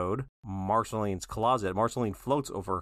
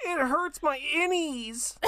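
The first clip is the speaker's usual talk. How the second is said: mock crying; slower than usual. Joking about crying at abs.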